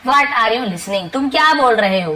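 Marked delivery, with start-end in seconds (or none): 0.1-1.1 each word said slowly and clearly for learners; slow model sentence. Shown as a demonstration. Teacher slowly models the sentence for Hindi learners. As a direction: spell it out slowly so students can copy. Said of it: "teacher models the sentence slowly".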